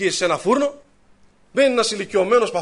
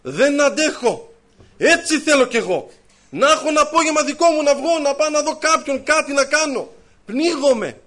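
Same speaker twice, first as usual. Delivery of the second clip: imitating a stifled man; 6 semitones higher, 4 dB louder than usual. Man voiced pleading, feeling trapped.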